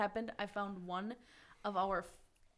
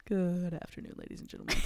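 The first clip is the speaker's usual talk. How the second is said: pilot voice; 3 semitones lower, faster than usual. Pretend. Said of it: "the classic, like, pilot voice".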